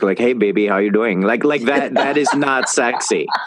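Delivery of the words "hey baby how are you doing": quick, deliberately put-on Indian accent. An interview guest demonstrates how Indian men sound, in an Indian accent. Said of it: "that Indian accent does not work".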